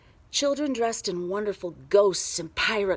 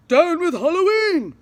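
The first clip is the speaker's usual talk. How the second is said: high, loud protest cry; furious mayor yelling his slogan; angry shout; 9 semitones higher, 11 dB louder than usual. A narrator's reading. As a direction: shout it at the crowd.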